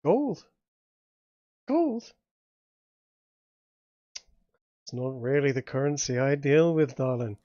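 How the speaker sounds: lightly voiced dealmaker, incredulous then dismissive; Seamus. Game master plays Seamus scorning gold.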